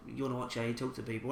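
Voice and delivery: low-key quiet telling-off; quiet, fast rebuke to a rude stranger; said a bit quiet. Retold or imitated. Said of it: "I sort of said it a bit quiet".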